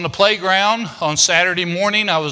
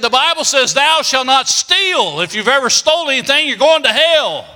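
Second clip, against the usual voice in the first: preacher warning; 6 semitones higher than usual. Retold or imitated. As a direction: thunder it like a hellfire preacher. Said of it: "He said".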